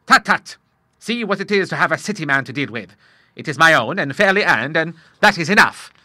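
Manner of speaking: put-on a touch of a jolly old sailor cheering up his son; father reassures his troubled son, lightly gruff; bluff old Admiral. A narrator's reading. Admiral's held voice.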